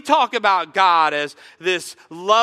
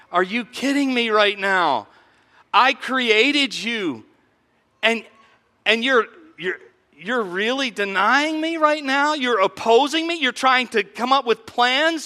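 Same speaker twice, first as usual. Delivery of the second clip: incredulous God; 4 semitones higher than usual. Retold or imitated. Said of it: "the laughter is simply incredulous in nature".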